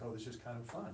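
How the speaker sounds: plain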